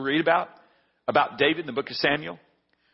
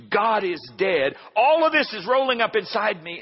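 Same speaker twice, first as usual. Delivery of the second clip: rising anger; 5 semitones higher, 3 dB louder than usual. Retold or imitated. Pastor recalling his anger at the van, rising loud. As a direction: let the anger swell.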